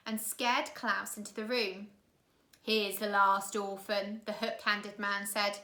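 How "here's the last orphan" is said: a hint of a menacing thug; gruff henchman. Henchman presenting the captive to the orphans, slow and menacing. Hook-handed man delivers Klaus.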